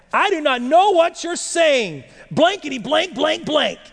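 high, emphatic acted denial; heated denial. Preacher acting Peter denying Jesus to a man, high and heated. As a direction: push the denial out high, swearing in mock blanks.

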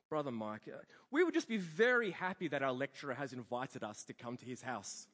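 lightly voiced, low diplomatic reply; a hint of a courteous, evasive guest; polite student. Student politely answers his lecturer, lightly imitated.

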